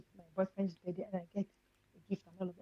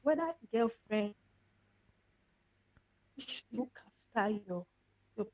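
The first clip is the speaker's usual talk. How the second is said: caller's voice cutting out; bad phone line, words dropping; radio breaking up. Real, not acted. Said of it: "You're breaking up a bit".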